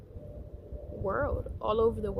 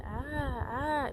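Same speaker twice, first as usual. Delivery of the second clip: higher, drawn-out "ah"; mock phone tone, pitched up; tone for men; 4 semitones higher, 3 dB quieter than usual. Shown as a demonstration. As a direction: lift the pitch and stretch each ah. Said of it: "When it's a man".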